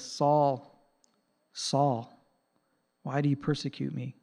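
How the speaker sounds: quiet, tender plea from Jesus; gently grieved, not angry; compassionate. Retold or imitated. Jesus pleading softly with Saul, compassionate. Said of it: "I think he had compassion".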